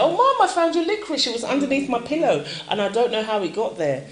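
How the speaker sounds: a hint of a small child's sing-song; son's voice. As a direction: play the innocent boy owning up. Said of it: "he came to me and said".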